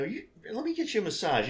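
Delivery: mock coaxing.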